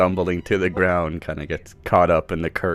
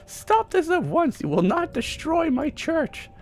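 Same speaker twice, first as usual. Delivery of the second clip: stern priest. Acted. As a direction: order them to stop at once. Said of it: "Mishon comes around the corner and says".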